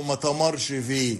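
"تمرش" with t and a final sh; Egyptian colloquial form. Shown as a demonstration. Linguist quoting the Egyptian negative, "تمرش" said with t. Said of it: "موجود في العامية المصرية".

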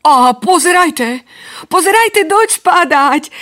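put-on high excited child calling out; excited shout. Somino shouting to his brothers about rain. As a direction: cry out in delight. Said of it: "zakričal naraz Somino".

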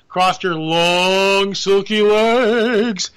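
slow, drawn-out sultry words; mock sultry. Host teasing about Megyn Kelly, slow mock-sultry. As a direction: stretch it out suggestively.

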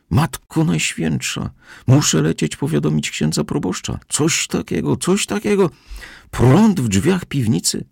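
very high, scandalised housekeeper voice; utter astonishment. A narrator's reading. Housekeeper must tell the priest, utterly astonished. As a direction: gasp it out high, aghast and disbelieving. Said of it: "uwidoczniło się takie zdumienie".

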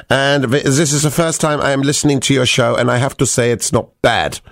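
put-on German accent. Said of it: "I'm allowed to do the German accent".

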